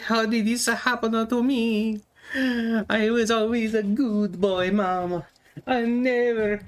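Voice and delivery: high, slow put-on wailing plea; a high, slow goblin swearing its innocence; pleading furry goblin. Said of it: "And you're like".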